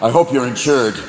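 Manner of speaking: low-pitched threatening deer; menacing buck. Acted. Buck stepping out before a car, low menacing warning. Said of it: "jump out in front of your car like".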